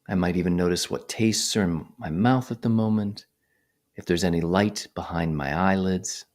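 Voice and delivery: unhurried phrases set apart by long silences; guided meditation. Real, not acted. Meditation teacher guiding attention to the breath, calm measured voice. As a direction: talk listeners through it calmly, leaving space.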